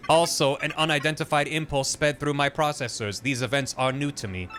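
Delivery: measured, even machine voice; computer voice. Acted. The computer explaining its glitch to Peach, lightly voiced machine. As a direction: speak like a calm, curious computer.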